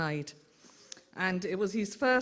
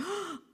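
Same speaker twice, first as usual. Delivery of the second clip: a sharp mock gasp of shock, pitched up; retold gasp; 12 semitones higher, 6 dB quieter than usual. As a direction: imitate a startled intake of breath. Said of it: "he looked absolutely shocked".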